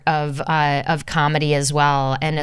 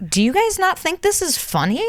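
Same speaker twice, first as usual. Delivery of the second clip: high, incredulous whisper; 12 semitones higher than usual. Retold or imitated. Mocking people who miss the joke, whispered high. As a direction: hiss it in disbelief. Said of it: "sect of humanity is like".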